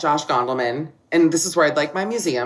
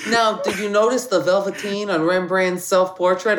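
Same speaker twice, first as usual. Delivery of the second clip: bad Boston accent. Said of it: "I don't do a good Boston accent".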